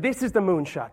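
imitated American colleague; lightly hammed American accent. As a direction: announce it in a put-on American accent. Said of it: "I'll stop the American accent now".

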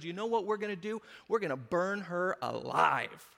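mildly indignant verdict, imitated; self-righteous. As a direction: pronounce sentence with mock righteousness. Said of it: "He is self-righteous".

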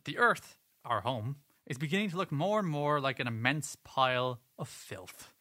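lightly voiced pope, declaiming; a hint of papal solemnity; Popey voice. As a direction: read it as a mild pope impression, emphatic opening. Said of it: "put on my best Popey voice".

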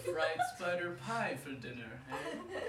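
slow, chuckling; relishing chuckle. Acted. Death relishing spider pie, chuckling. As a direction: savour the thought.

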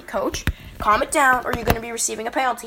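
retold stern official's warning. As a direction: sternly warn the coach, stretching the first words. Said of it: "And I said very sternly".

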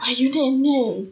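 words pushed out on a burp. Real, not acted. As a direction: burp while talking. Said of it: "That was me. Just a burping".

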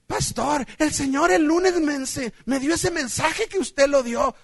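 lightly mocked, stumbling testimony; imitated church member. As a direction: mimic a congregant claiming advance revelation. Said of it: "una persona que diario así me decía".

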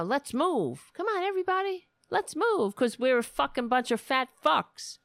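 sarcastic pep-rally impression; mocking Michelle Obama. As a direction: ham up a peppy fitness coach. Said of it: "because she want, you know".

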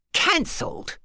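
breathless, high startled echo; surprised. A narrator's reading. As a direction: catch the word in disbelief. Shocked at surprising news.

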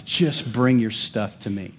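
God's gentle invitation. Retold or imitated. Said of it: "God says".

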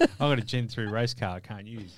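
talking around a sip of water; sipping water. Real, not acted. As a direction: speak just before taking a drink. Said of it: "as I have a sip of water there".

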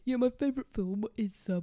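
stuffy cold voice; blocked nose. Retold or imitated. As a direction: talk through a heavy cold. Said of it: "Just me kinda going".

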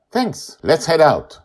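put-on high, eager child voice; a girl catching her friend before he goes; little girl Joy. A narrator's reading. Joy stops Charlie before he leaves, high childlike voice.

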